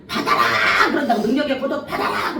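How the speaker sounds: loud, laughing mock proclamation; half-laughing hammed-up command; mock shout. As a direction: bellow it like a showy preacher. Mock preacher imparting power.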